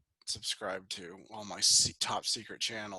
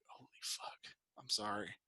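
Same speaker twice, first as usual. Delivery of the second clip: retold sheepish apology; 3 semitones lower, 9 dB quieter than usual. Retells sheepish apology to dad.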